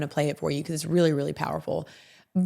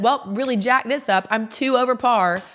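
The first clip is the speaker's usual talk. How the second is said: mock defeated excuse; 5 semitones higher, 5 dB louder than usual. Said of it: "to be like".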